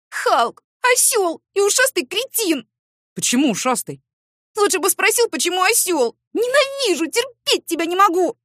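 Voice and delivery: high, loud shouting through tears; tearful fury. Acted. Woman shouting at neighbour after crying, high and loud. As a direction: yell at him from the bedroom.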